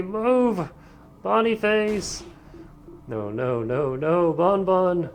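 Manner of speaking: high, loud desperate pleading; panicked high cries. Acted. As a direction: scream for a friend in danger. Panicked cries as friend crushed.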